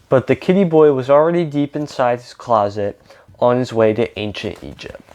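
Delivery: lively read-aloud with lightly acted dialogue; storybook reading with emphatic openings; picture-book narration. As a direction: read a story to children, animated.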